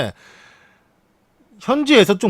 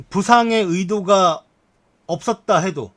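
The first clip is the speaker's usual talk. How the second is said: measured, projected article reading; news read; 4 semitones higher, 4 dB louder, slower than usual. Acted. Streamer opens the next article for viewers, news read. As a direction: read the headline out clearly and deliberately.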